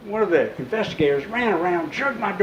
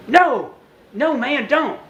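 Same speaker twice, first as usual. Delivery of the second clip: urgent plea; 8 semitones higher, slower than usual. Retold or imitated. Stopping partner from shooting.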